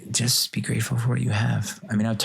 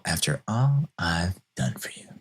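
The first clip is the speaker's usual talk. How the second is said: lightly put-on funny voice; a hint of a comic parent voice. Shown as a demonstration. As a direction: say it jokingly, half serious. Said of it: "I'll say it in a funny voice".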